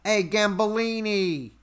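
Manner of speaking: drawn-out mock Jersey greeting; New Jersey accent. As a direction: hail a pal slowly in New Jersey accent. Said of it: "Okay, New Jersey".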